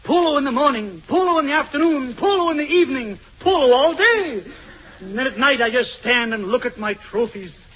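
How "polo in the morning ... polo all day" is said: playboy boast. Acted.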